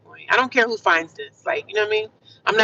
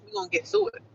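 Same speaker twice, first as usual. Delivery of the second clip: pitched way up, cheering herself on; high pep call; 14 semitones higher, 7 dB quieter, faster than usual. Real, not acted. Telling viewers she will rise, high and upbeat. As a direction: lift it high like a rally cry.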